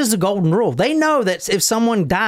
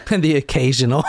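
laughing; 4 semitones lower than usual. Real, not acted. Mocking the misread name, laughing.

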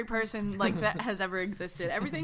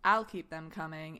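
suggestive; 6 semitones lower, slower than usual. Retold or imitated. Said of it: "It was the way you said it".

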